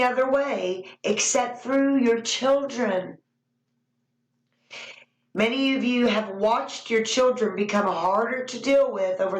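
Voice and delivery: solemn, measured prophecy reading; prophetic message. Acted. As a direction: speak as the Lord to his people. Delivers prophecy as God's voice.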